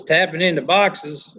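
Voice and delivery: attempted Southern drawl, slowly; Southern accent. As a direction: imitate a Southerner, drawing the words out. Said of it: "he's got a real Southern accent".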